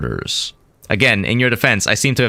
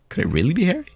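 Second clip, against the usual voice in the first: much higher through the laughter; laughing; 9 semitones higher, 4 dB quieter, much faster than usual. Real, not acted. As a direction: ask it while cracking up. Laughing at the name guess.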